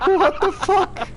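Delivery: hoch lachend herausgeprustet. Real, not acted. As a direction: durch das Lachen rufen. Lacht über Missgeschick im Spiel. (lachend gerufen)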